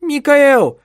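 the wife screams at her husband as he drags her upstairs, very loud and high; screaming. Acted. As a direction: shriek his name in panic. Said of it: "кричала она".

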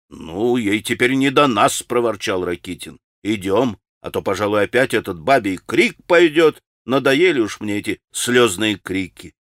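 grumbling. Acted.

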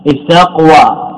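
استقوى said slowly and drawn out; slow demo word. Shown as a demonstration. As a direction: hold استقوى out so students catch it. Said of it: "لكن استقوم لا إشكال فيه". (نطق بطيء للكلمة)

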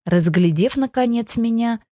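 ordinary delivery, nothing marked

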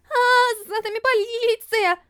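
high frightened yell; panicked cry. A narrator's reading. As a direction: scream it in panic. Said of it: "в панике закричала я".

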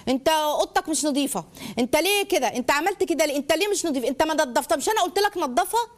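acted nagging scolding, pitch climbing; mock parental telling-off. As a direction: fire off accusing questions like a fed-up parent. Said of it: "اسلوب الشتايم".

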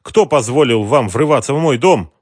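high, loud indignant woman. A narrator's reading. Mara to the intruders, loud and outraged. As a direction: push back at the intruders, outraged.

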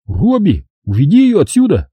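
losing patience. A narrator's reading. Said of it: "не выдержал Келли".

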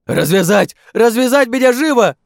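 very high, very loud frantic order; frantic demand. Acted. Bound chief to comrades, a frantic very loud demand. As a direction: scream to be untied at once.

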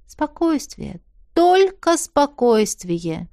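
slow, deliberate self-soothing; slow calming mantra under the breath; calming herself. Acted. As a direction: talk yourself down slowly. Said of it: "медленно и глубоко вдохнула".

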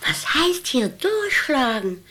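put-on high, offended old lady; indignant outburst. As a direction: snap back, wounded pride. Old woman offended by the nurse.

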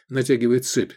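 ordinary delivery

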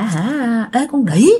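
hammed-up furious insults, voice up high; mock cursing rage. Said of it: "vừa chửi vừa đánh". (giọng chửi rủa giả giận dữ, cao giọng)

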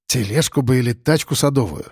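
musing, unhurried, a touch pensive; thoughtfully. Acted. The narrator muses aloud about how to carry the dog, pensive. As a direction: wonder aloud to yourself. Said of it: "задумчиво проговорил я".

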